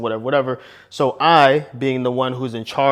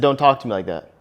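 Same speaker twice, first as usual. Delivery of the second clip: firm calm command. Retold or imitated. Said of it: "I didn't yell at her".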